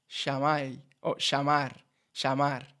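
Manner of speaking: llamar said sha-mar, Argentine sh; Argentine accent. Shown as a demonstration. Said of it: "dicen sh".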